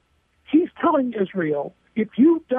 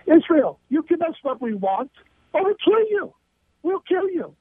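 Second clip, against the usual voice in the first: imitating a terrorist, pitched up on the threat; mock terrorist threat; 5 semitones higher than usual. Commentator voices terrorists threatening Israel, mocking ultimatum. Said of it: "It works like this".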